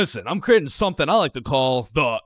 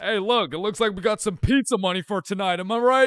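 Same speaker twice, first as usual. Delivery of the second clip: smug muttering; 3 semitones higher than usual. Retold or imitated. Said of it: "he mutters".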